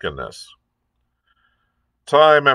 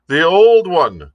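much higher, louder, slow call; crying out; 9 semitones higher, 7 dB louder, slower than usual. A narrator's reading. Another sailor shouts for the old song. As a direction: yell the request out eagerly. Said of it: "cried another".

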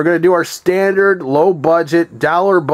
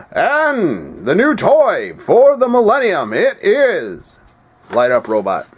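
fighting game announcer. Shown as a demonstration. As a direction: hype up the new toy like an announcer. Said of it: "I gotta do my announcer voice".

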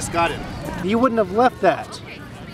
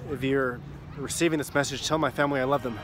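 low, quiet and grave; hushed final message; 4 semitones lower, 10 dB quieter than usual. Acted. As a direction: speak like a last desperate recording. Acted final message recording.

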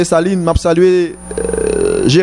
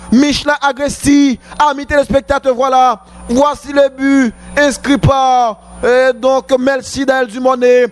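excited sports commentary; 5 semitones higher than usual. Real, not acted. Still celebrating the goal.

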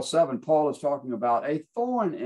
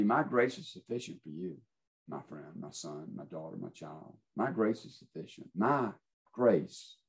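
tender reply; 3 semitones lower than usual. Acted. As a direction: gently comfort a hurting child. God's answer to Paul voiced.

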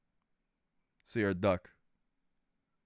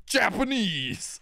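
mock excited; 4 semitones higher, much slower than usual. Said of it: "he's like".

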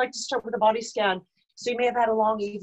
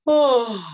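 loud open oh with raised palate; lifted palate oh; 4 semitones higher, 8 dB louder than usual. Shown as a demonstration. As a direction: feel the lift on a sudden oh. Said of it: "you can also engage that palate".

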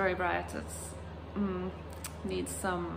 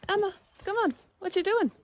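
raised high coaxing call; calling the dog; 11 semitones higher, 4 dB louder, faster than usual. Real, not acted. Owner coaxing her barking dog, raised and high. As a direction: coax the dog back, loud and high.

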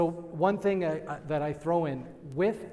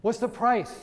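mild mock yell, pitched up; retold yell; 5 semitones higher, 3 dB louder than usual. Somebody yells out to the presenting agent, mild mock yell. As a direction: imitate a heckler calling out, higher. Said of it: "Somebody yells out".

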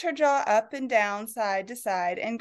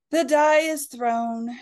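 sleep-inducing reading; 3 semitones higher, 5 dB louder, much slower than usual. Acted. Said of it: "in her most moderate, sleep-inducing tones".

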